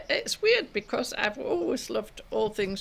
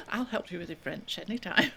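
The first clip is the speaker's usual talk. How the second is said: laughing offer. Retold or imitated.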